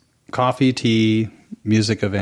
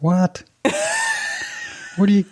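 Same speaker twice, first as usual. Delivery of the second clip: a quick high What; surprised; 11 semitones higher than usual. Real, not acted. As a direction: caught off guard, half laughing. Shocked at LinkedIn dating.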